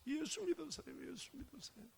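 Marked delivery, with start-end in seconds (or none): 1.1-1.8 softer echo of the urging. Retold or imitated. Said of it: "그때 제 마음에서".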